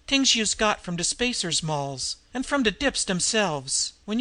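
lightly voiced street slang, tired; weary tough woman. Weak Nan recounts rumours.

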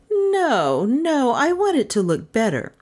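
high, swooping heroine voice; voiced female client. A narrator's reading. Heroine answers in acted dialogue.

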